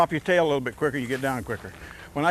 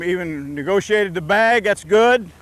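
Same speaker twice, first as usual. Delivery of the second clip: louder, higher burst of praise for the player; excited praise; 3 semitones higher, 6 dB louder, slower than usual. Real, not acted. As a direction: cheer him on as he rounds the bag. Coach cheering a good play.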